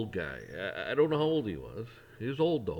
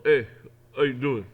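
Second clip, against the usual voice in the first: a bright, louder hello; friendly greeting; 2 semitones higher, 8 dB louder than usual. Shown as a demonstration. Acknowledging an acquaintance, loud and friendly. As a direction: greet them like you mean it. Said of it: "You just go".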